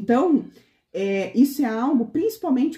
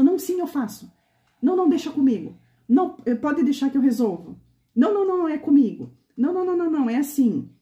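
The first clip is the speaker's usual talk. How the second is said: acted eager yes, pitched up; over-eager; 4 semitones higher, faster than usual. Excited woman rushing to take on a favour, acted over-eager. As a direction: jump in higher, insisting, as if carried away. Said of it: "muito empolgado com tanta coisa".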